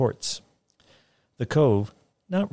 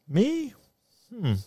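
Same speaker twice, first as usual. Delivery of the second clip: sing-song voice; 14 semitones higher than usual. A narrator's reading. Fagin voiced.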